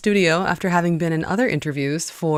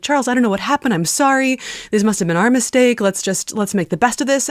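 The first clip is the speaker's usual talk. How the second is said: higher-pitched, apologetic plea; flustered apology; 5 semitones higher than usual. Retold or imitated. Host retelling her call to the guest, flustered and apologetic. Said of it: "so flustered and apologetic".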